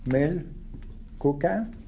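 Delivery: Milkuka stretched very slowly, syllable by syllable; teacher drilling Milkuka very slowly; slow model word. Shown as a demonstration. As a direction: draw Milkuka out for the class. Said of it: "Or you can say".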